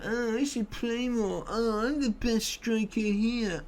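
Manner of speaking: high, slow whining mimicry; mock the moaning striker's whine; mocking whiny striker. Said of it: "He's just moaned at me".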